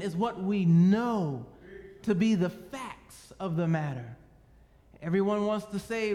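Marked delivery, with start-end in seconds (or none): 0.0-4.2 emphatic. Acted. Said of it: "preaching with authority".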